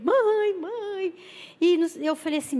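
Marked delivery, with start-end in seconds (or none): 0.0-1.2 high, mock tearful call for mother; imitated crying. Crying caller to her mother on the phone, imitated sobbing. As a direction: wail it higher, fading off, imitating a crier. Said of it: "eu já escutei chorando no telefone".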